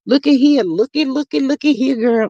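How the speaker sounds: put-on hey girl, look what I got for you; playful call to a friend. Calling a friend over to show the picture, lightly excited. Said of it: "I'm saying".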